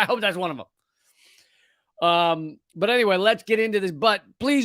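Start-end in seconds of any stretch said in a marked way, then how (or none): 0.0-2.1 slow hushed whisper. Real, not acted. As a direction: breathe it out as a private aside. Whispered aside.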